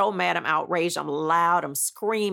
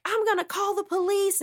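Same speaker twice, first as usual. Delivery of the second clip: imitating boyfriend; 13 semitones higher than usual. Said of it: "And he was like".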